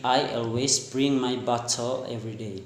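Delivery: lightly attempted British accent; British-style BOTTLE, T sounded. Shown as a demonstration. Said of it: "But in British".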